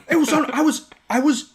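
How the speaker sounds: high laughing burst. Real, not acted. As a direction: laughs while getting words out. Laughing as he tells it.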